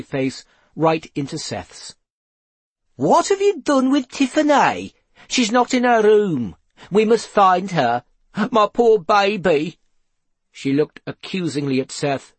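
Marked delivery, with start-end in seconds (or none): 2.9-9.8 loud, high, frantic accusation; frantic mother. A narrator's reading. Mother accuses Seth over missing daughter, frantic. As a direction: cry out in high panic for your child.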